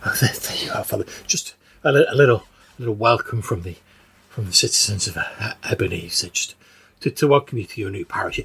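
lightly voiced chatty old woman. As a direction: fuss over him like an old churchgoer. Agnes character keeps talking.

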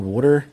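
"water" with a rounded Philly "wooder" vowel; "water" with a closed, rounded first vowel; Philly pronunciation of water. Shown as a demonstration. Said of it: "you can hear it when I say the word water".

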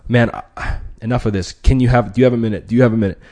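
loud, blunt demands; no-nonsense hardcore push; direct short bursts. Shown as a demonstration. Negotiator cuts to the chase, loud and blunt. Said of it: "the direct, short burst".

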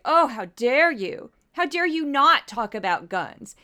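sarcastic imitation of pious indignation; mocking feigned outrage. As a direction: parody their fake outrage, slightly hammed-up. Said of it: "I don't buy your feigned outrage".

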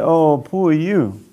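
slow, drawn-out fake pity; mock sympathy, dragged out slowly. The preacher mocks a friend's sympathy with slow fake pity.

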